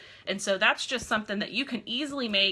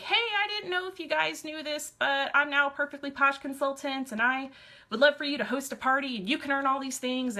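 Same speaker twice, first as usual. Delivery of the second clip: mock chirpy sales pitch; 5 semitones higher than usual. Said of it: "she was like".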